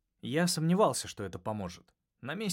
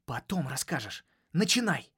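growl; 4 semitones higher, 4 dB louder than usual. A narrator's reading. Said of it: "прорычал я".

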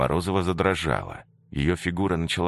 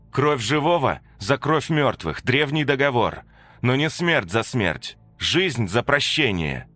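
solemn incantation; 9 semitones higher, 4 dB louder than usual. Acted. Katya speaks the blood rite.

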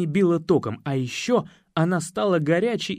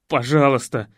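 groaning plea; 3 semitones lower, 7 dB louder than usual. Acted. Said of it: "простонал я".

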